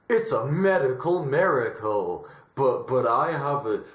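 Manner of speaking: lightly voiced doctor delivering startling news; acted doctor. Doctor calls the patient in, lightly acted halting announcement. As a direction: put on a halting doctor's voice, stumbling over words.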